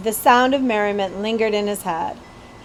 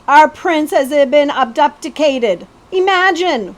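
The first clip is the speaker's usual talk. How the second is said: gossipy excitement; 5 semitones higher, 6 dB louder, slower than usual. A narrator's reading. Gossiping milk lady.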